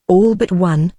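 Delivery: mild ominous weight on "one"; ominous emphasis. A narrator's reading. Captain names the one difficulty, with ominous emphasis on "one". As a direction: lean lightly on "one", ominously. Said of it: "with an ominous emphasis on the last word".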